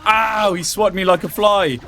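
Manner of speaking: high, loud yelp of pain; sharp ow. Real, not acted. Gamer swatted by the boss, high loud ow. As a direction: cry out as the hit lands.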